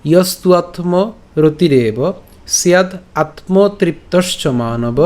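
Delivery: slow, careful Sanskrit recitation; verse line repeated. Shown as a demonstration. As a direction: recite the line slowly with pauses between phrases. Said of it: "আমি আবার বলছি প্রথম লাইনটা".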